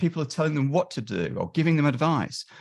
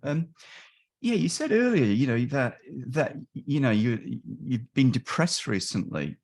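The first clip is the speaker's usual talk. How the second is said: nervous student. Retold or imitated. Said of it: "And they go".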